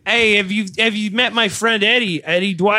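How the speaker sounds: high, loud mock-Canadian; bad Canadian accent. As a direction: put on a hammed-up Canadian accent. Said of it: "I don't know what accent that was, but it certainly wasn't Canadian".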